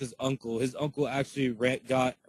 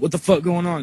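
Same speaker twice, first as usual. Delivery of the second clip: mock yell, higher and louder; imitating his yell, louder and higher; retold yell; 7 semitones higher, 8 dB louder than usual. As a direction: half-shout it like he did. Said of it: "Yeah, he yelled it".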